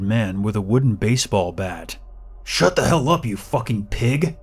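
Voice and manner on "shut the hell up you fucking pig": higher, strained scolding yell; angry yell. A narrator's reading. Agitated man silencing the captive, angry raised yell. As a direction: yell it high and furious, slowing at the end. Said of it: "the man yelled".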